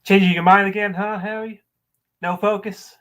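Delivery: slow, theatrical dressing-down with wide pitch swings; scornful monologue. Acted. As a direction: berate someone in measured, acted bursts, punching key words. Performs audition monologue.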